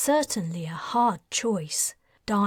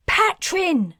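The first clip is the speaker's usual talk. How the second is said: high, loud yell of the name; 9 semitones higher, 6 dB louder than usual. Acted. Talon yelling at her son, alarmed. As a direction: cry out to stop him. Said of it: "Talon yelled".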